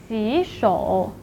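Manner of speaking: 洗 rising before a low 手 in 洗手; tone-change demo. Shown as a demonstration. Teacher introduces washing hands, second tone then third. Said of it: "So it should be pronounced as".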